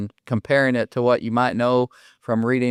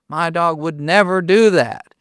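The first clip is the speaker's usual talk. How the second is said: a bit louder, insisting the dog would never; insistent retold owner; 4 semitones higher, 4 dB louder than usual. Owner to David, insisting more firmly, louder. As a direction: press the point harder on do. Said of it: "And they're like".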